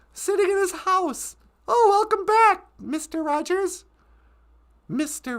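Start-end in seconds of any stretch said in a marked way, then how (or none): 1.7-3.9 loud, high-pitched welcome back; hammed-up welcome, easing off on the name; mock greeting. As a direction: greet him with mock enthusiasm.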